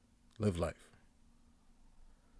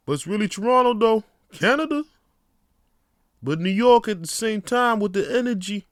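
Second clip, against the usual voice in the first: hyped up; 9 semitones higher, 7 dB louder than usual. Acted. Hype shouting about Toronto.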